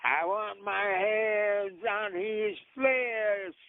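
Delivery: slow, high menacing yell; slow drawn-out hunter's yell. Retold or imitated. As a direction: growl it out like a hungry hunter. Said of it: "yelled out".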